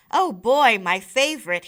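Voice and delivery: hammed-up "Oh boy" with a loud burst on "boy"; a boy overdoing fake glee; overdone boy's delight. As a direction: ham up a fake delight for mom. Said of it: "overdoing it".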